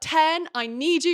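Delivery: high, drawn-out, called-out scream. Retelling a book scene where a character screams for help: imitating a scream. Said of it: "She screams at Ten".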